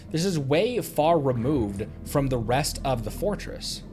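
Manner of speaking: ordinary talk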